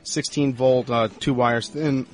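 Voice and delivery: choking while talking. Real, not acted. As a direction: talk through a choking cough. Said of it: "Excuse me, I'm choking here".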